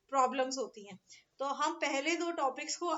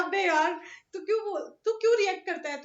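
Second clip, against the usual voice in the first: louder, mock annoyed boy; irritated student; 2 semitones higher, 6 dB louder than usual. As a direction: imitate the teased kid snapping back. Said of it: "तो ये चिढ़ जाता है". (चिढ़े हुए लड़के की नकल)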